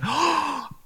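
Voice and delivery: sharp, audible gasp; hammed-up gasp of alarm; shocked gasp. Disciples watching Peter on the waves, shocked gasp. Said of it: "all the guys going".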